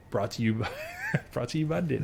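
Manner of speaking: mock ad voice. Mock ad tagline.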